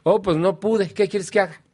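high, mock-helpless shrug in the voice; hammed-up lazy excuse, pitched high; whiny excuse-maker. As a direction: play the self-indulgent one excusing himself. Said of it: "una persona indulgente consiga misma se permite".

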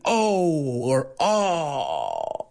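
disappointed oh. Shown as a demonstration. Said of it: "we would do an".

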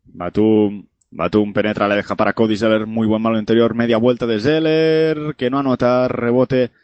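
quick radio basketball commentary; live play-by-play. Acted. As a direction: call the game live as it happens. (narración deportiva en directo)

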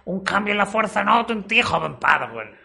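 lightly voiced wise Jedi; a hint of a mystic mentor; Jedi master voice. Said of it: "Su tía era como un Jedi".

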